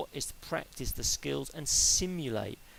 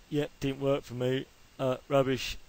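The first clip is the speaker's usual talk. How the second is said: blunt dismissal. Retold or imitated. Coach imitating an athlete giving up, bluntly dismissive. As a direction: toss it aside like it's rubbish. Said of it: "in that sort of blunt way".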